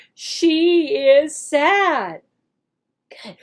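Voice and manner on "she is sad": slow modeled sentence. Shown as a demonstration. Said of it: "teacher acts out the lesson".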